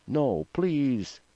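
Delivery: contained scream, pleading; screamed plea. A narrator's reading. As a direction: beg with the pitch pushed right up. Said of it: "screamed Lorette".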